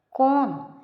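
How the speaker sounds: sudden high, loud who; surprised. Acted. The family asks in surprise, sudden high loud question. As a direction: blurt it out in shock.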